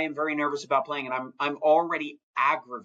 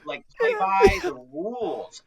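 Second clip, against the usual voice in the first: drawn out, higher mock plea; mock exasperated plea; 4 dB louder, slower than usual. Real, not acted. Frustrated fan pleading with the Lions, mock exasperated. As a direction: beg them, half joking, slowly. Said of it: "My God".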